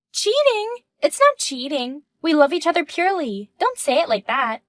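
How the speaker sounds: offended at the dirty word; indignant. Acted. Mistress objecting to the wife calling it cheating.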